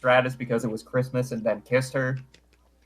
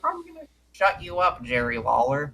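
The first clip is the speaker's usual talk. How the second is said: nervous; 3 semitones higher than usual. Retold or imitated. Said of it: "very nervously says".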